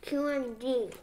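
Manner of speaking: talking through food; mouth full. Real, not acted. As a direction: say it while chewing. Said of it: "You're talking with your mouth full".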